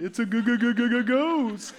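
slow, stuttering cartoon fright on g-g-g-g-g-ghost; hammed-up cartoon scaredy-cat stutter; Scooby-Doo stammer. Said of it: "They get all Shaggy and Scooby".

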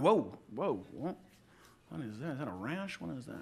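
low, hushed startled puzzlement at the mirror; quietly puzzled at your own face; startled waking surprise. Pretend.

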